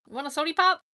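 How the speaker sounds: mock Southern sody pop; imitating sody pop. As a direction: mimic the friend offering a sody pop. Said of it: "I know somebody who says".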